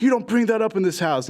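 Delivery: high-pitched mock parental outrage; heated retold scolding; scolding dad. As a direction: act out an angry dad laying down the law. Dad angrily scolds his son.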